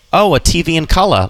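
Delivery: a light Australian accent showing the shared vowels. Shown as a demonstration. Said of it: "the Australian accent isn't too different from the Boston accent".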